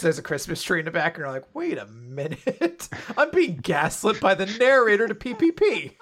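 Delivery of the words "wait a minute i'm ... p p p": mock dawning suspicion broken by laughter; a reader realizing the narrator is lying, laughing; laughing mock realization. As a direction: play the reader catching on, laughing. Acting a confused reader.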